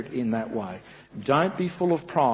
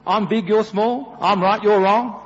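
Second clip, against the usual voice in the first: a hint of the bullying dad from Matilda; lightly voiced smug tyrant, a bit louder; mock know-it-all boasting; bossy Matilda parent; 6 semitones higher, 7 dB louder than usual. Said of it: "I think the movie's Matilda".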